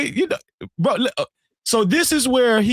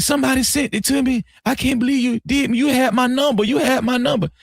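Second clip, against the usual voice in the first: higher-pitched imitated complaint; mock whining; 6 semitones higher than usual. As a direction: lightly mimic a friend's whiny accusation. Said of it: "he was whining".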